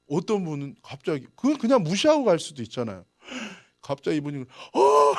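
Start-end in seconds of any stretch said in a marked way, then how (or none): 4.4-5.1 startled. Retold or imitated. Lady suddenly startled.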